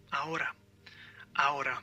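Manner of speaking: "ahora" as a-OH-ra with tapped r; "ahora" modelled in Spanish, vowels joined; silent H. Shown as a demonstration. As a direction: say "ahora" without any H. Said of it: "you say ahora".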